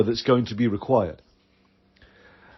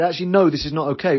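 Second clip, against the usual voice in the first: firm boundary; 3 semitones higher, faster than usual. Pretend. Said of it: "anger can be the energy of the warrior".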